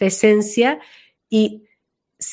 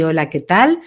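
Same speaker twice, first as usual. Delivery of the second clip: a lightly lowered, grounded greeting; 5 semitones lower than usual. Retold or imitated. Teacher showing Blanca's new voice, mildly lower. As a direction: settle the voice down low and easy. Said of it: "la voz le bajó, así".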